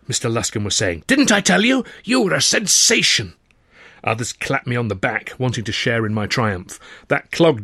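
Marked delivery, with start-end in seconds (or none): 1.1-3.3 bright, higher congratulating voice; hearty praise. Acted. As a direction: clap him on the back with your voice. Tutor praising narrator after show.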